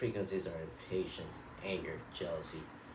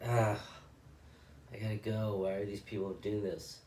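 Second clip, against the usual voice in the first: impatient frustration; 3 semitones higher than usual. Retold or imitated. Impatient man in checkout line.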